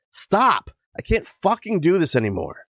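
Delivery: sudden high cry, breaking out; raw outburst. Acted. Patient finally snapping at her therapist, a raw high cry. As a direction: let it burst out high and raw. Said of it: "Too loud, too raw".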